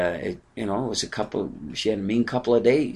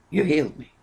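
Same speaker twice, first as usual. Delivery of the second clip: lifted repeat; 5 semitones higher, 4 dB quieter than usual. Acted. Preacher echoing David's healing to the church, raised in wonder.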